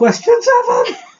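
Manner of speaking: very high, cracking voice. Reading out the next quiz question number, in a cracking teenage voice. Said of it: "I sound like the teenager from Simpsons".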